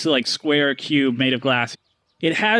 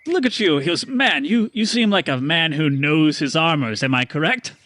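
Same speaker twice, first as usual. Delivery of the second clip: salesman pitch. Acted. Stanley pitching armor to Paxton. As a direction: flatter and sell. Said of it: "he points over to Paxton and he goes".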